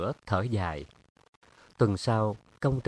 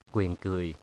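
plain reading voice

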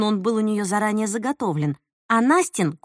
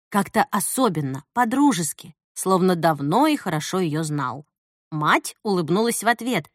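usual speaking voice

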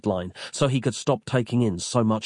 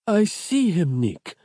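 muttered Capello; 8 semitones higher, slower than usual. A narrator's reading. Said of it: "muttered Capello".

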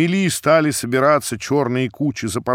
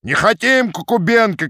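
crowd shout; 8 semitones higher than usual. A narrator's reading. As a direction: shout him down. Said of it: "кричала другая".

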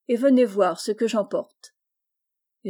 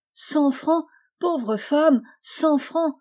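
mock amused echo, pitched up; laughing harder; 5 semitones higher, much slower than usual. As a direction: toss the sum back with a light laugh. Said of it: "riant plus fort".

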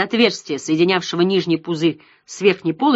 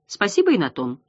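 gently mocking. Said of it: "с обычной тонкой насмешливостью".

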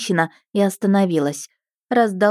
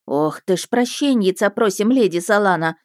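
wailing; 3 semitones higher than usual. Acted. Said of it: "завопила женщина".

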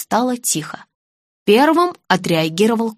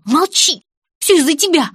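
angry hiss; 6 semitones higher, 4 dB louder than usual. A narrator's reading. Blonde snaps at the boy.

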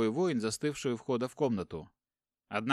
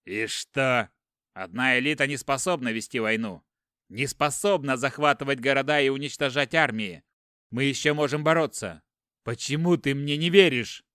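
louder, angry pleading rebuke; heated argument; 7 dB louder than usual. Acted. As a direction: press him hard, voice rising. Elder brother argues, rising. (брат гневно спорит, громче)

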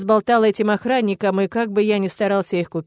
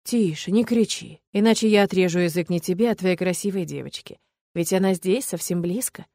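smirking threat. Acted. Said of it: "Усмехаясь, угрожает ублюдок".

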